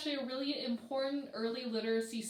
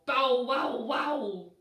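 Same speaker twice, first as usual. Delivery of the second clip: big dog bark; 9 dB louder, much slower than usual. Acted. Reader voicing bigger dogs, louder bow wow. Reading animal sounds book.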